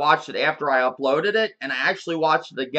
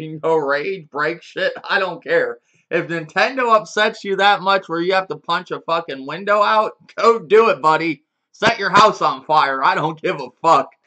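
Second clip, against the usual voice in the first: mock dare; 5 dB louder than usual. Real, not acted. Mock-daring fans to rage.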